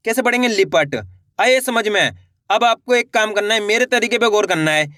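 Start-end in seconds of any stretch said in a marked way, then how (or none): 0.5-1.0 "लिपट" short and lower, falling; quick short i. Shown as a demonstration. Teacher repeating the model word, "लिपट" with quick short i. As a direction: say "लिपट" briskly as one word. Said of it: "उच्चारण तेजी के साथ करना है".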